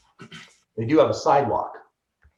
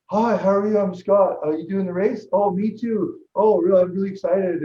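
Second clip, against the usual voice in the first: high, loud, bubbly small talk; eager chatter; 9 semitones higher, 6 dB louder than usual. Retold or imitated. Newcomer chatting to the champion, eager and bubbly. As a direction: chirp away to a stranger, all keen. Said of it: "And I was just like".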